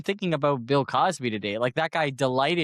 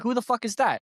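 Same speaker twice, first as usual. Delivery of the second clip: mock baffled; 9 semitones higher than usual. Imagined public dismissive.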